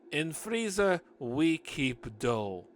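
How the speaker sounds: put-on thick Russian accent, slow; heavy Russian accent voice. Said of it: "in her thick Russian accent".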